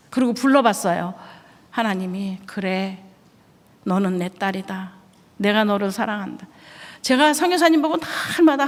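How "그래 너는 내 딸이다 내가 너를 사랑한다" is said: soft, slow, lower voice of God; God's gentle voice. Retold or imitated. God answering the kneeling wife, soft and slow. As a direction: speak as a tender heavenly father.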